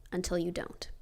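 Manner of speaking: dropped to a whisper for the twist; whispered aside. Acted. A teller to her viewers, whispering the twist. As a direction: hush it like a secret.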